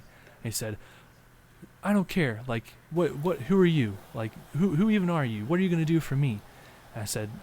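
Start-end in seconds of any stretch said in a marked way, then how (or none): 1.8-6.4 higher and louder, hurled questions; mock angry yell. Storyteller as the angry man shouting at the would-be helper. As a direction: throw it back at him, pitched up and loud.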